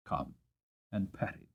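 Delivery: put-on soft, hushed invitation to a child; gentle coaxing. Father invites Dolly to pat the horse, soft coaxing. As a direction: coax the little girl in close.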